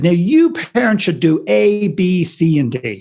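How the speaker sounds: hammed-up moralising list; mock lecturing parent-scold. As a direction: tick off the rules like a scolding teacher. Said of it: "She said".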